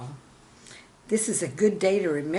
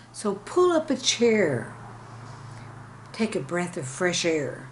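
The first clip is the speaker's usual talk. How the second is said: measured, rhythmic poem reading; poem recital. Acted. Teacher reading her poem to viewers, rhythmic recital. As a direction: recite each line as verse.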